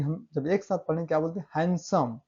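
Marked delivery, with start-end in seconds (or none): 1.6-2.2 HANDSOME said as one word, the d in हैंडसम dropped; silent d. Shown as a demonstration. Teacher shows students the joined word, silent d in हैंडसम. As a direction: say हैंडसम with no d sound. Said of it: "डी silent होता है".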